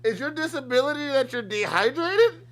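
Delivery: baffled outburst at the claim; incredulous. Real, not acted. Mocking clip in disbelief.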